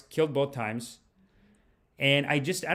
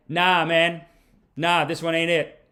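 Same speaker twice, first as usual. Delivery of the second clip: dismissive heckle; 2 semitones higher, 5 dB louder, slower than usual. Retold or imitated. Retold audience heckle from floor.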